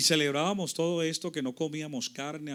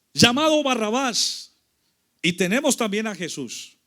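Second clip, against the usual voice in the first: loud, raised public-address delivery; authorities addressing crowd; 8 semitones higher, 10 dB louder than usual. Acted. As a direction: call out to the gathered people like an official. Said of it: "le dijeron al pueblo que estaba reunido allí".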